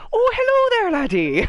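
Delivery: high, loud hammed-up Scottish greeting; Scottish-style accent. GM slipping into the same old accent, jolly Scottish. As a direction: boom out a jolly Scottish hello. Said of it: "this character needs an accent".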